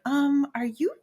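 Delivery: imitating nosy people asking about her address; nosy acquaintances. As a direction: lightly play the busybody asking questions. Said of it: "they were like".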